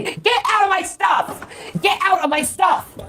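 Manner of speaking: angry high yell. Real, not acted. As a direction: shout at the roommate. Yelling during fight.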